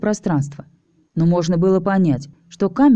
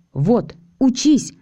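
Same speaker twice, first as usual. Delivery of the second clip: higher, slow, gleeful call; gleeful cry; 6 semitones higher, much slower than usual. Acted. Alisa praising Naiv's loyalty, gleeful cry. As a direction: crow with delight. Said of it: "радостно крикнула Алиса".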